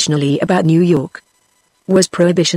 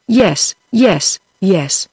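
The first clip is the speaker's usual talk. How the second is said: cried; much slower than usual. Acted. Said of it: "he cried".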